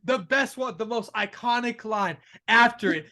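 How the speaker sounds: ordinary talk, nothing marked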